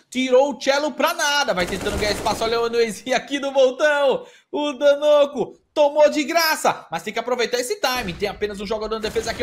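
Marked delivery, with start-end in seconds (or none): 0.1-6.8 excited, punchy esports call; live play-by-play. Real, not acted. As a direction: call the action, stretching the last kill. Narra abates ao vivo. (narração animada de e-sports)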